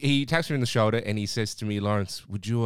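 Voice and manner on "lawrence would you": attempted South American accent. Guest tapping the worker's shoulder to ask a favour, in an attempted South American accent. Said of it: "I'll try and replicate it".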